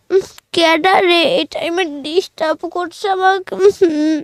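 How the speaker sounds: slow, drowsy grumble; groggy sleepy child. Acted. Sleeping pupil woken by the teacher, groggy grumble. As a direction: mumble as if half asleep.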